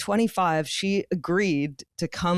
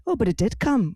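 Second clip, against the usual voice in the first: higher-pitched mock Irish railway worker; Irish accent; 4 semitones higher than usual. Railway worker contradicting stranded passengers, in an Irish accent. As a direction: put on a light Irish accent. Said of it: "I'm doing a full Irish accent".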